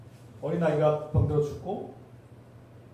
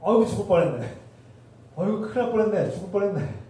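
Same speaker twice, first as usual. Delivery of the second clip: mock relief, pitched higher; higher, louder 아이고 of relief; relieved exclamation; 5 semitones higher, 3 dB louder than usual. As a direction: ham up the sigh of a close call. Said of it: "뭐 이런 거 하잖아요".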